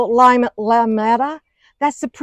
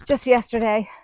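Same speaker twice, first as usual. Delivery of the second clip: out of breath. Real, not acted. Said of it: "I'm out of breath".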